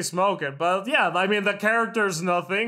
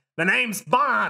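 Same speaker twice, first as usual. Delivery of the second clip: put-on American-accented speech; 3 semitones higher than usual. Describing how a Bond actor says his line: Pierce Brosnan with American accent. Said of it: "He says it like with an American accent".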